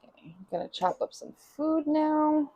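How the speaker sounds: soft unvoiced whisper. Real, not acted. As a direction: whisper the plan to the camera. Whispered narration.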